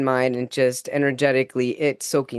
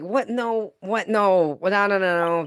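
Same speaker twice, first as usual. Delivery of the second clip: higher, incredulous no no no; mock-startled denial at a vision; startled disbelief; 5 semitones higher than usual. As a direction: protest in stunned disbelief. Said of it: "at first I was like".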